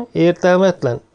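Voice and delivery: asking, hoping for a no; hopeful. A narrator's reading. Wallace hopefully asking the mathematician, hopeful. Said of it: "kérdezte reménykedve".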